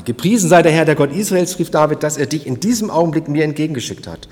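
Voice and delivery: loud, fervent blessing; David calling out. Retold or imitated. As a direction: proclaim with grateful fervour. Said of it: "sagt er noch einmal". (David segnet Abigail laut und feierlich)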